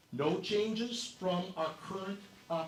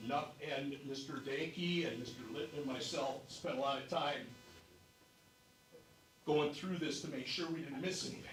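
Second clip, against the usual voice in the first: slightly winded after rushing over; out of breath. Real, not acted. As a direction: speak a little breathless from hurrying. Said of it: "So I'm a little out of breath".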